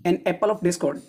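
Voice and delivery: the phrase read out very slowly, word by word. Shown as a demonstration. Teacher reading a related phrase to students, very slowly. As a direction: draw out each word of the phrase.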